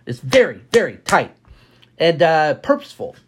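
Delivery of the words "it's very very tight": very tight, each word clipped apart; punchy staccato emphasis. Shown as a demonstration. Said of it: "like with staccato, you know, staccato".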